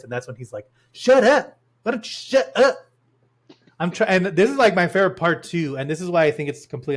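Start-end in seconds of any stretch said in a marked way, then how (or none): 0.9-2.8 high, sharp mock yell; acted angry snap. The singer to the woman pleading with him, acted irritation. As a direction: snap it like a fed-up movie star. Acts out singer snapping.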